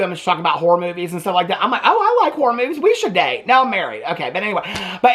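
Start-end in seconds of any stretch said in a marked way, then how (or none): 1.8-3.5 laughing flirt. Retold or imitated. Joking she'd date Joey herself.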